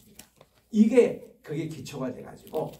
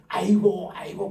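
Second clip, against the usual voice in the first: mock wailing; 4 semitones higher, 9 dB louder than usual. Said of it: "우리 세상 사람들 하는".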